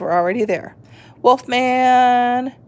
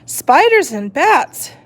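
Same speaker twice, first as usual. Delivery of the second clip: thinking aloud; 9 semitones higher, 4 dB louder than usual. A narrator's reading. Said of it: "she thought".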